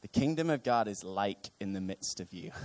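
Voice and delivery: put-on Californian valley girl twang. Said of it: "sounding like a Californian valley girl".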